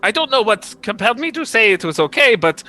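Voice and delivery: lightly voiced earnest prince; prince character voice. Prince explaining why he accepted the curse, earnest voice.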